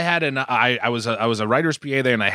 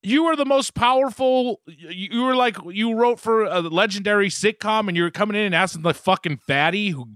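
incredulous; 6 semitones higher than usual. Retold or imitated. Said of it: "And I was like".

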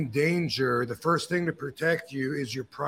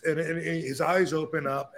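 normal talking voice

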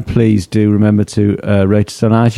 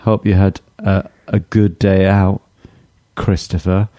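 sarcastic. Real, not acted. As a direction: say it flat, like you don't mean it. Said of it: "that sounded, like, really sarcastic".

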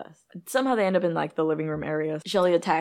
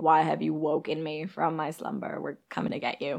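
creepy demon voice. Retold or imitated. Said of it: "talking in a creepy voice".

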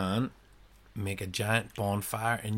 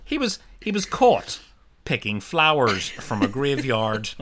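loud mock news report; newsreader; 2 semitones higher, 5 dB louder than usual. Making up a graveyard scandal, mock newsreader voice. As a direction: project it like a bulletin, barely serious. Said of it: "that's what newsreaders would say".

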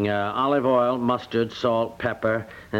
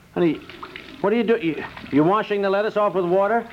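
as if she's ruining the dinner; startled husband catching his wife washing lettuce; shocked; 6 semitones higher than usual. Acted.

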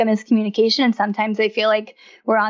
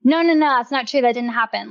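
dismissive denial; 2 semitones higher than usual. Shown as a demonstration. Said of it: "we can't say things like".

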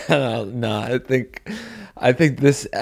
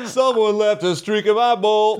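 high, slow whiny soldier voice; mock recruit; 9 semitones higher than usual. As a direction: drawl it like a dim recruit. Playing recruit in the bit.

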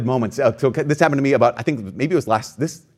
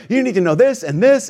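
retold lecture; 8 semitones higher than usual. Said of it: "as I was just like".

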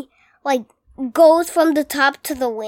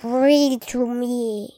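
slow gurgling monster voice; gurgly gargoyle voice; slower than usual. Shown as a demonstration. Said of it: "Try it again".

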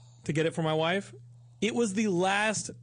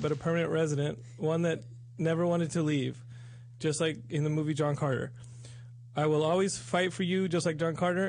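reading a love letter. Acted. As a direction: read it like a heartfelt love letter. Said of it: "I get nervous reading this love letter".

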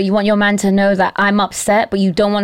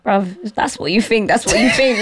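put-on laid-back boyfriend voice. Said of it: "He's just like".

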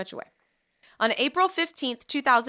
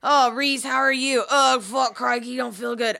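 put-on Australian accent. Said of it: "do we have listeners in Australia".

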